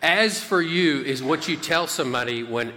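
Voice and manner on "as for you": "As for you" like a stern dad, slow. Shown as a demonstration. Preacher doing a stern dad addressing a child. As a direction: give "As for you" a dad warning. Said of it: "that has a real dad vibe to it".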